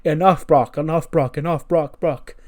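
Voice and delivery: mock-pleading manager calling his beast off; calling out to calm. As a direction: urge him to stop, calling over the noise. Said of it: "Paul Heyman's there going".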